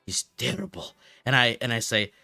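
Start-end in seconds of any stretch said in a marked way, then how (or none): 0.0-0.9 slow, drawn-out mock Russian accent; hammed-up Russian storyteller with broken English. Streamer retelling his bus story, in a slow mock Russian accent. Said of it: "I started talking in a Russian accent".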